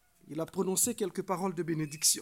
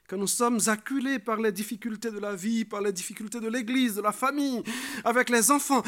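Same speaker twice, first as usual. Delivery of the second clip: mounting list, louder toward the end; emphatic preaching; 3 semitones higher, 6 dB louder than usual. Real, not acted. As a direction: pile up each item with growing force. Preacher piles up life's hardships. (prédication qui monte en puissance)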